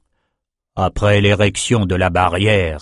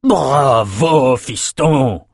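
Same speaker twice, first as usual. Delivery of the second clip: drawn-out, delighted cheer; exultant mentor cheering on a pupil; joyful shout; 3 semitones higher, much slower than usual. A narrator's reading. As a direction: cry out with joy. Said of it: "Nathan cria de joie".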